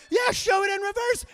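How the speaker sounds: high, very loud shout; second bystander joining in. Retold or imitated. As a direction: take up the cry from across the room. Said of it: "this other guy goes".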